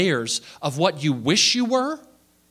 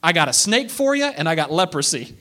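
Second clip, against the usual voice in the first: God's voice; 3 dB louder than usual. Acted. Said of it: "And God says".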